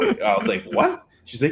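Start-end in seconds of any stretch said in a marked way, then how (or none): 0.7-1.0 high, startled what; acted high-pitched disbelief; retold shock. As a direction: re-enact being taken aback, pitch leaping up. Retelling shock at her confession.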